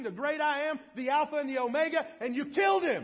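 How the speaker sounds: forceful roll of titles building to a shout; thundering preacher, climaxing in a loud accusation; Peter. Acted. Acts Peter's accusing sermon, building.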